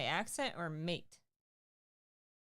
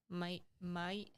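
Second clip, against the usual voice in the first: "Mate, mate" said as "mite, mite" in an Australian accent; trying an Australian accent; 4 dB quieter than usual. Shown as a demonstration. Co-host tries saying "mate" in a light Australian accent. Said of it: "How do you say that in, uh, Australian accent?".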